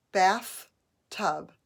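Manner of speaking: "Bathtub" split as bath, pause, tub; syllable by syllable. Shown as a demonstration. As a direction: beat out "Bathtub" in two separate syllables. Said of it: "Put your hand on your belly".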